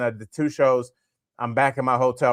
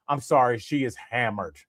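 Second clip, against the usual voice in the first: put-on light New England accent, understated; a hint of a New England cop; 3 semitones lower, 4 dB quieter than usual. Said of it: "one of those, like, New England accents".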